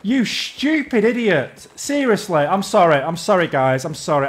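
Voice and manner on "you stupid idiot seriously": real raging. Real, not acted. Gamer to teammate Leia hiding in the trees, raging. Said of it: "I'm raging again".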